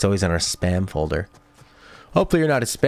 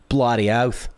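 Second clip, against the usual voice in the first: Australian slang; 3 semitones higher, slower than usual. Shown as a demonstration. Answering what it means by saying it again in mock Aussie. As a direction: say "Bloody oath" with a hearty Aussie rise. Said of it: "Bloody oath is slang".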